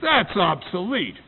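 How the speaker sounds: a loud, hammed-up Cockney cab driver; Cockney cabbie. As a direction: bellow it like a London cabbie in broad Cockney. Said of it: "In this wonderful Cockney accent".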